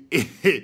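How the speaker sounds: loud burst of real laughter. Real, not acted. Host reacting to the prank call, laughing out loud. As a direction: cracks up at the joke.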